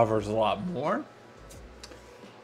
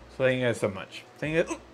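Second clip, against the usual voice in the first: slurring words; 3 dB louder than usual. Real, not acted. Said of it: "I am slurring my words like crazy".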